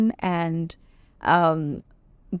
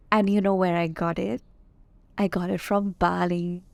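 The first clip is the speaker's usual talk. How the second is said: sexy radio voice. Pretend. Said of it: "using this sexy radio voice".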